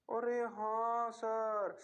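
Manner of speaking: drawn-out, slow student agreement; mock student reply. Teacher mimics students agreeing, slowly drawn out. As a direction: stretch it out like a lazy class.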